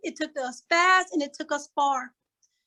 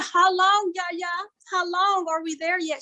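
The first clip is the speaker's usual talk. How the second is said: put-on impatient child; 5 semitones higher than usual. Impatient granddaughter voiced.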